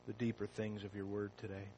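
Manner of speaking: soft, hushed pastoral prayer; low reverent prayer voice. Acted. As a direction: pray quietly and earnestly to God. Pastor leads opening prayer.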